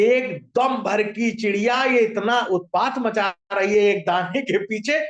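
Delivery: mildly indignant, slowed-down complaint; angry king. Acted. King fuming over a tiny bird's fuss, mildly angry. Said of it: "राजा को बड़ा गुस्सा आया".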